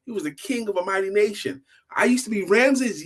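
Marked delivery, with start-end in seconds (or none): 1.9-3.0 higher, louder, amazed disbelief; can't believe his luck; amazed question. Acted.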